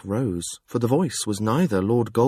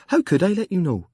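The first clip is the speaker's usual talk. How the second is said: higher, bright and pressing; cheerful demand; 10 semitones higher, 5 dB louder than usual. Acted. Jekk answering the fool, cheerfully demanding. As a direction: tease him while demanding an answer. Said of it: "Jekk demanded cheerfully".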